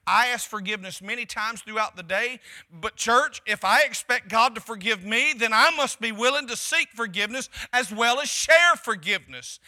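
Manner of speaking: full-voiced sermon push. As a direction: preach it out loud to the church. Preacher at full force.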